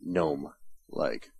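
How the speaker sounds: slow, low gnome-like voice; drawn-out low gnome voice. Shown as a demonstration. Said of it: "Or if I started chatting more".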